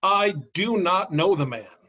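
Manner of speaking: firm denial. Acted. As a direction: swear it, pressing each word. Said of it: "he denied it with an oath".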